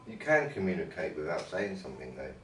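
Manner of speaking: talking through a mouthful; words round a bite of food; mouth full. Real, not acted. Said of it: "Sorry, I've got my mouth full".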